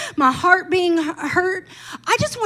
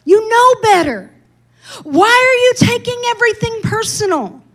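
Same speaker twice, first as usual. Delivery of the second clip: scolding herself; 6 semitones higher than usual. Retold or imitated. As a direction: scold yourself sharply. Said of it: "I was mad at myself".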